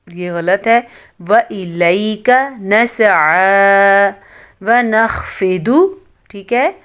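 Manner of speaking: slow, measured melodic recitation; Quran style recitation. Acted. Teacher recites the dua aloud for students, slow and melodic. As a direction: recite the dua slowly with care.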